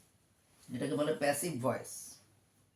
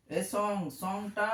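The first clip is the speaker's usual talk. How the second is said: slow dictation; 2 semitones higher, much slower than usual. Shown as a demonstration. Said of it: "ছোট্ট বন্ধুরা দেখো".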